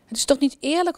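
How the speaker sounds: near tears. A narrator's reading. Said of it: "begint bijna te huilen".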